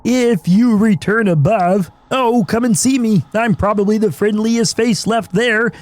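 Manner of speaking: lightly voiced friendly nerd; nerdy game character. Streamer reading a game character's lines aloud. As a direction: read the traveller's lines kindly.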